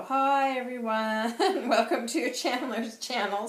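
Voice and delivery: exaggerated singsong channel intro, imitating; teasing mimicry. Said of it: "he'll mimic me and he'll go".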